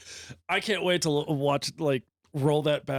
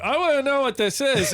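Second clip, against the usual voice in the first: excited; 12 semitones higher, 5 dB louder than usual. Retold or imitated. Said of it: "I was like".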